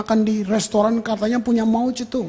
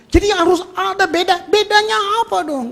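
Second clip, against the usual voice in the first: higher, pressing the question; rising question; 9 semitones higher, 3 dB louder than usual. Real, not acted. Preacher challenging the congregation, higher and pressing.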